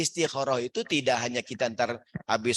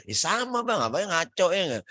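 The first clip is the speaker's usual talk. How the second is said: wife's retort; 6 semitones higher than usual. Retold or imitated. Wife retorting to husband.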